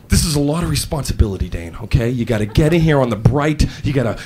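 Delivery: low-pitched, earnest boss briefing; lightly voiced manager laying down responsibility; serious boss. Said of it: "My boss was really serious".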